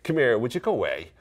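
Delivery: Irish idiom delivery. Shown as a demonstration. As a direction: toss it out in an Irish accent. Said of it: "separate it from the Irish accent".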